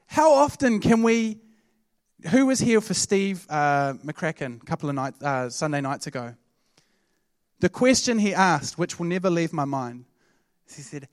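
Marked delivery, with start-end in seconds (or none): none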